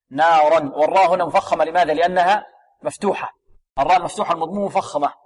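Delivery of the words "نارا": نارا opening with a thin "naa"; correct light noon. Shown as a demonstration. Teacher repeats it rightly, correct light noon. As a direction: keep the noon of نارا light before a heavy ra. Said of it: "لا، النون مرقة".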